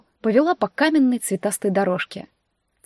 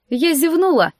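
sour, higher denial of tears; sour reply; 7 semitones higher, 4 dB louder than usual. Acted. Heroine sourly answering the sister who caught her crying. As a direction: snap back sourly, hiding the tears. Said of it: "кисло ответила я".

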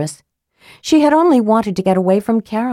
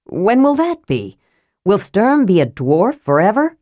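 higher, worried questions; mild anxious outburst; 3 semitones higher than usual. Acted. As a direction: fret about his friend. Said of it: "Stop shouting".

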